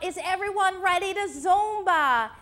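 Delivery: mock call to a whole class; teacher's shout. Zumba teacher asking if everyone is ready, mild mock shout.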